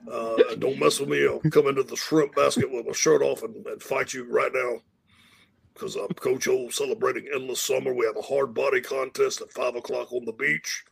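lightly voiced bragging Cajun coach, swaggering but quiet; Coach Orgeron voice. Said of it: "give him your Coach Orgeron impression".

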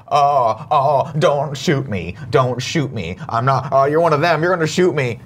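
lightly acted mock pleading; Bill Clay. Host re-enacting Alan Rickman's fake hostage act, mock pleading. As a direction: imitate a captive begging, drawn out at first. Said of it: "Doing that Bill Clay".

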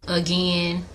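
Again said a-gain with the ai vowel; Again with long ai. Shown as a demonstration. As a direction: say Again to rhyme with rain. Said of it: "transform the E sound in again into an I".

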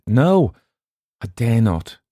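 high, loud "No", then falling; fearful refusal. A narrator's reading. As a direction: refuse as if in dread. Frightened stranger refuses offer.

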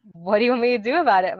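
fast, exasperated question; defensive retort. A narrator's reading. Boss retorts to soaked coworker, defensive and fast. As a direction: fire it back defensively.

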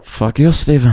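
a hint of Lincoln's Scottish-Irish accent. Egged on by friends, mild Lincoln accent at Steven. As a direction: tease Steven in the put-on accent. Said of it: "Keep doing it".

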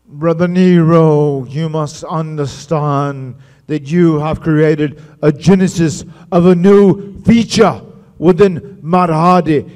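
put-on slow, loud, grandiose Broken Matt accent. Matt redoing his debut promo for Jeff, slow grandiose Broken Matt accent. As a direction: stretch every word out in the Broken Matt accent. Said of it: "I do the whole accent right".

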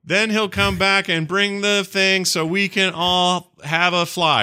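put-on high, slow little-girl prayer voice; lisping a sweet child's bedtime prayer; child's rhyme prayer. Daughter praying for her dad in space, high and slow. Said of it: "she does some rhyme about her dad".

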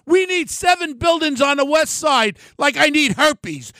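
scornful shout; shouted jab. Real, not acted. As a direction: bellow the insult across the room. Ranting at developer Steve.

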